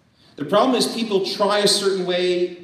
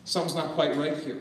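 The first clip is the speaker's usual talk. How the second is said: hesitant, unsure murmur; a client quietly voicing doubts; doubtful client; 6 dB quieter than usual. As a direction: sound a bit unconvinced. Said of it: "but they might be a little bit".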